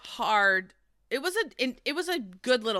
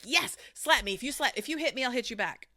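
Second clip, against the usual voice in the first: playful taunt; 4 semitones higher than usual. Retold or imitated. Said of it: "Like they're playing a game".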